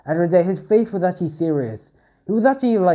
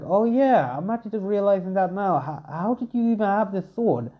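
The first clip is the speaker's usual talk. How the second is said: surprised question; 6 semitones higher than usual. Acted. Hestia notices the sword.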